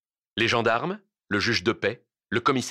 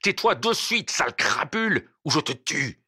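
raised, furious threat; angry cry; 4 semitones higher than usual. Acted. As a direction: order silence with mounting fury. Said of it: "il lui cria".

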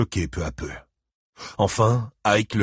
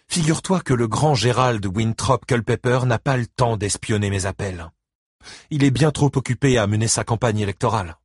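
ex-wife retorting; 4 semitones higher than usual. Acted. Christine's voice on the phone.

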